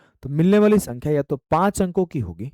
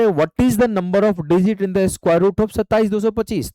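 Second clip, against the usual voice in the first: slow question read; 5 semitones higher, 5 dB louder, slower than usual. Shown as a demonstration. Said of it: "बोला गया".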